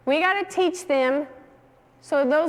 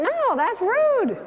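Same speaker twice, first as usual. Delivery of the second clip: slow, higher, firm scolding; firm correction; 7 semitones higher, much slower than usual. Shown as a demonstration. Trainer showing how to correct a rude dog, slow and firm. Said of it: "So we need to teach him".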